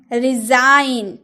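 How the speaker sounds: रिजाइन drawn out slowly, ending on N; slow model of रिजाइन, no G sound; silent G in resign. Shown as a demonstration. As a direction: stretch रिजाइन and close on N. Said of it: "आप जी बोल रहे?".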